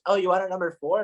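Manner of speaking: high, teasing mock cashier. Cashier teasing the stumbling customer, mock high voice. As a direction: echo him back with a laugh. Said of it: "she goes".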